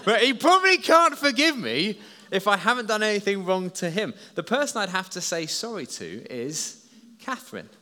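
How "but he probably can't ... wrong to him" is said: laughing through the words, higher and louder; real laugh while explaining. Real, not acted. Preacher to the congregation, laughing at his own joke.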